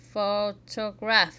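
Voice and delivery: "photograph" slow and loud, syllable by syllable; "photograph", slow emphatic teaching demo; one accented syllable. Shown as a demonstration. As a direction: spell out the stress of "photograph" slowly, first syllable accented. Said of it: "very loudly and the other syllables very quietly".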